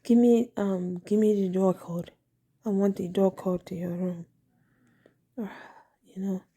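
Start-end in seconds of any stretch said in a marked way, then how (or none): 0.0-4.3 lightly imitated African-sounding accent, "the" as "dee"; Jamaican or African accent. Quoting a man pestering her for the door code, lightly imitated African accent. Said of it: "that's how he talks".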